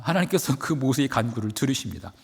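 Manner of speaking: ordinary talk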